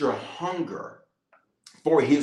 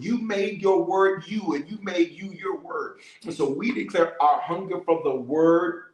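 emphatic, declarative congregational prayer; fervent prayer; 3 semitones higher than usual. Real, not acted. Preacher praying to God for hunger for the word, fervent prayer. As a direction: pray with insistent, building repeated phrases.

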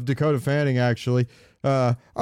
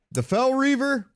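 much higher, alarmed squeak of the name; mock alarm; 12 semitones higher than usual. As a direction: shriek the name like you're terrified. Dramatic exclamation naming monster.

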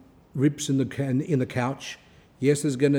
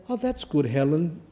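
offhand praise; 3 semitones higher than usual. Retold or imitated. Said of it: "And say".

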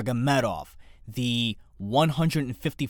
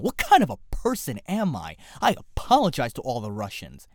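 mock dismay. Mock despair at his bad accent.

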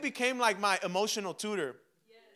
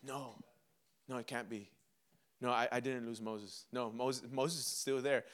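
low, soft, halting disbelief; quiet denial; 8 semitones lower, 8 dB quieter than usual. Acted. Joshua refusing to accept losing Moses, quiet denial. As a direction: refuse it under your breath, pitched low. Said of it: "is denial".

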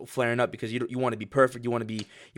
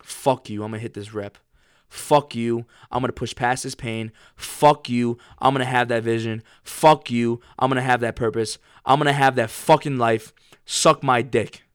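louder, defiant hype at the pain; defiant self-talk; 4 dB louder than usual. Retold or imitated. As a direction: spit it back at the heavy rep. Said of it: "Be like".

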